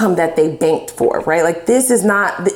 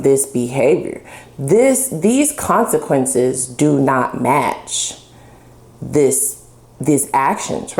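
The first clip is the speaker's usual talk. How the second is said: lower, slow condescending voice; gaslighting partner, mocked; 7 semitones lower than usual. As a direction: talk down like a gaslighter. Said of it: "make you feel like you're overreacting".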